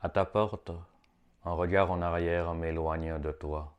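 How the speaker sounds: measured recital, pausing between phrases; poetry reading. Acted. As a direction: read it as short mystical verse. Reads short poem aloud.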